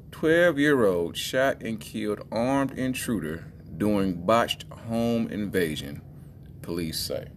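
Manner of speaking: slow, deliberate news headline read. Real, not acted. Host presenting a headline to listeners, slow measured read. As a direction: read it out slowly, word by word.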